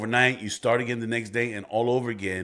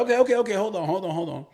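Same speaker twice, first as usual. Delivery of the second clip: higher, louder hold on; mock interrupting; 10 semitones higher, 4 dB louder, faster than usual. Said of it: "I'm like".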